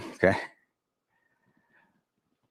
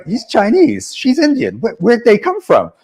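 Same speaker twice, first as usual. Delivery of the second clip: amazed discovery; 10 semitones higher, 7 dB louder than usual. Retold or imitated. Suddenly noticing other customs agents.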